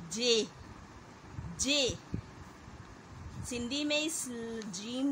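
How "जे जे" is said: जे said slowly and clearly; pronouncing the letter. Shown as a demonstration. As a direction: sound out जे for the class. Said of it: "उसे कहा जाता है". (अक्षर जे का साफ़ उच्चारण)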